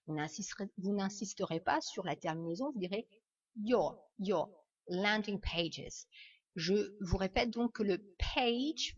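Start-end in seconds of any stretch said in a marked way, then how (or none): 3.6-6.1 "your" as yaw, silent final r; British English. Shown as a demonstration. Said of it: "en British English". (« your » à la britannique, sans r final)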